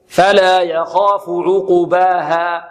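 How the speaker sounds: slow chant with "عقباها" wrongly said as uqubaha; beginner's mistake demo, u vowel on the qaf of "عقباها"; damma on the qaf. Shown as a demonstration. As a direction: add a short u after ق in "عقباها". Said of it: "مضمومة. يحصل هذا".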